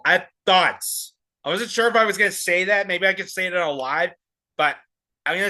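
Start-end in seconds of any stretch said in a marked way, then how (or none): 0.0-1.1 slow mocking imitation. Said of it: "A little spicy, but I have thoughts".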